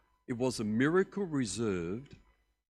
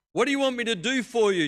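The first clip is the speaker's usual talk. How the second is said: loud question; 12 semitones higher, 9 dB louder than usual. Acted. Jesus loudly asking the blind man what he wants. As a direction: ask it high and loud.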